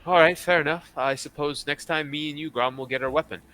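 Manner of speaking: lightly voiced woman, conceding; agreeable woman character. Game master voices a female character.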